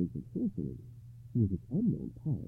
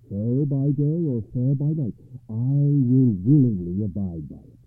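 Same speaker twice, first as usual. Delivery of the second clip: slow, louder sincere knight; devoted knight; 4 semitones higher, 10 dB louder than usual. A narrator's reading. Kneeling Gawain yields the choice to his bride, slow and sincere. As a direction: give her the choice wholeheartedly.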